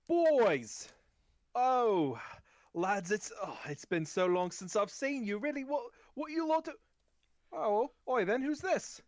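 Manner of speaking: loud, high, exuberant gnome greeting; big high-pitched welcome, calling out; effusive gnome merchant. Acted. Gnome merchant hailing his long-unseen lads, high and effusive. Game master voices the gnome Euronymous.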